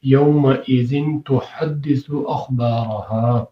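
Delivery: slow, drawn-out tajweed reading of "یومئذ تحدث اخبارها"; تلاوت کے انداز میں; Quran recitation. Shown as a demonstration. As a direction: chant the verse slowly with care. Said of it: "قرآن مجید کے اندر ہے".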